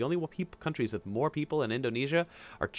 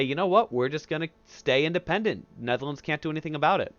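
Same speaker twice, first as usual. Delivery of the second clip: mock-proud, pitched-up declaration of independence; defiant nationalists; 5 semitones higher than usual. Indonesian leaders telling the Dutch off, cocky mock defiance. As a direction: play the cocky rebels saying they'll stay free.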